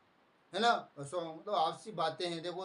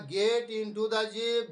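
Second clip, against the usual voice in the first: each word dragged out slowly and weighted; slow movie line; 3 semitones higher, 4 dB louder, much slower than usual. Retold or imitated. Hero orders his brother into the jeep, slow and menacing. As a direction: spell out the order slowly, like a film villain. Retelling a movie threat scene.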